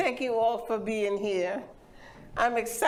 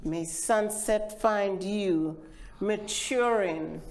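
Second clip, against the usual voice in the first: measured, unhurried reading of a poem, with family voices inside; poetry reading. Acted. Poet reads her childhood poem to the audience, measured reading voice. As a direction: let each line land, savoring the dialect.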